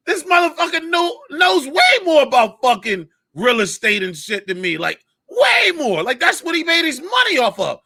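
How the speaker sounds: high, excited disbelief at how much he knows; amazed realization. Retold or imitated. Telling his cohost about a comic who out-knows him, high excited disbelief. Retold inner thought, impressed.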